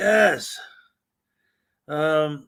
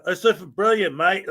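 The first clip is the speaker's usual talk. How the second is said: put-on accent on "mate", said like "mite"; Australian-style "mate" accent. Shown as a demonstration. Streamer showing how they wanted to praise a viewer's email, mock accent. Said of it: "like, with the accent".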